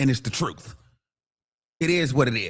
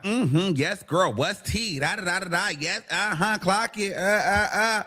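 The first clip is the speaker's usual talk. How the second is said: mock flamboyant gay chatter; 4 semitones higher than usual. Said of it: "then it was like".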